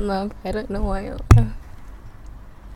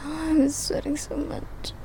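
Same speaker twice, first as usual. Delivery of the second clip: slow, soft, whispery and winded; spent; 6 semitones higher, 5 dB quieter, slower than usual. Real, not acted. Remarking on sweating afterwards, soft and spent. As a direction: whisper it slowly, worn out.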